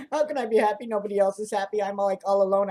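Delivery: half laughing, half wailing about loneliness; hammed-up woe; mock lament. Mock lament amid put-on laugh-crying.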